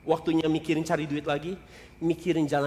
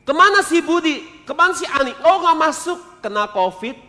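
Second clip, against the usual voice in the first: office gossip; 13 semitones higher, 10 dB louder than usual. Pretend. Office workers chatting.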